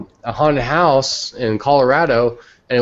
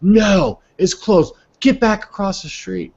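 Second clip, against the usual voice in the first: mock cop refusal; 10 semitones higher, slower than usual. Cop turns him away from the closed base, high and commanding. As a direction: cut him off with a raised, pitched-up order.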